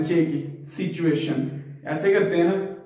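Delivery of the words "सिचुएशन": सिचुएशन with a 'ch' sound in the middle; common mispronunciation. Shown as a demonstration. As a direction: make the 'chu' of सिचुएशन plain. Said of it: "चे की आवाज निकालते हैं". (सिचुएशन का आम उच्चारण, 'चु' के साथ)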